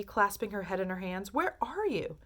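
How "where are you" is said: anguished cry. A narrator's reading. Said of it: "screamed Missus T V".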